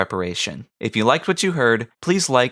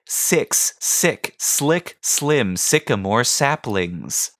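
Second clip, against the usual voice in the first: over-enunciating; much slower than usual. Shown as a demonstration. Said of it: "same over-enunciation technique".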